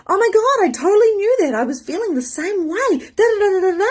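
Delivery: very high, loud gushing friend. Retold or imitated. Friend's voice message agreeing, loud high gush. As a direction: ham up a friend's over-the-top agreement. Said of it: "she goes".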